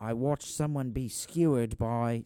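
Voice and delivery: slow put-on British accent; British eyewitness, slow and measured. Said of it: "Like, a British person leaving that is like".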